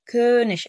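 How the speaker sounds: كونش with a long, firm ö; model pronunciation. Shown as a demonstration. Teacher says it to be copied, clear long ö. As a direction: lean on the ö of كونش. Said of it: "اسمع صوت وقلد".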